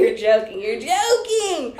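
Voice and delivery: laughing, half-crying disbelief. Retold or imitated. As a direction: laugh it out, slowing at the end.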